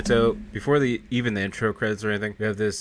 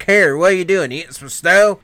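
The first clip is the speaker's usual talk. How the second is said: loud, higher challenge from the other guy; imitated calling out; 7 semitones higher, 11 dB louder than usual. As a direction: holler over like a baffled onlooker. Second man calls out, retold.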